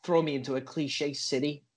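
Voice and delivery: put-on protesting in an American accent; stagey American rebuttal. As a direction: object in a comic American voice.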